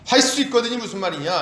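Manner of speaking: a mildly voiced scolding question. Preacher voicing Jesus rebuking the boy's father, stern. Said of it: "아주 엄한 책망이죠".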